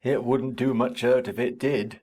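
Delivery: deep broad country voice; vulgar country accent. Acted. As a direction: speak it like a rough farmhand, broad and low. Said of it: "He answered in his vulgar accent".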